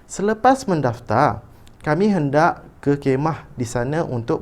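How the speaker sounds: put-on high, animated child's request, read aloud; expressive reading. Shown as a demonstration. Teacher reads Hadif asking father's permission, animated intonation. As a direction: lift every phrase, rising into the request. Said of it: "baca dahulu petikan dengan intonasi".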